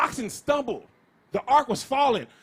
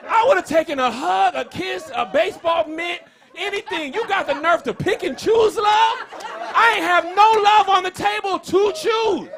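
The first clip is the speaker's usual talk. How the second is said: louder, higher mock outrage; comic indignant rant; 4 semitones higher, 6 dB louder than usual. Real, not acted. Comedian venting at kids picking love, loud indignant rant. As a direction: rant like you were robbed of a dad. Ranting about never knowing dad.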